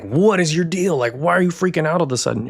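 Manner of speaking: mock-voicing an irritated partner, quick and high; annoyed girlfriend. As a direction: fire it off like a fed-up girlfriend. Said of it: "And she's like".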